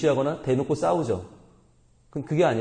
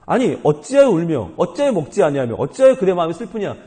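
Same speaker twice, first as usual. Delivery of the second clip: exasperated, emphatic mock questioning of a wife; baffled husband; 4 dB louder than usual. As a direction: act the husband who can't understand, pressing each question. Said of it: "도무지 이해를 못하는 거죠". (도무지 이해 못하는 남편의 답답한 말투)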